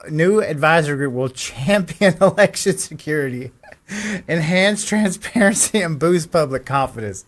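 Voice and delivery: reads on through laughter, pitch rising; barely keeps a straight face; laughing while reading. Real, not acted. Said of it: "this is funny to me".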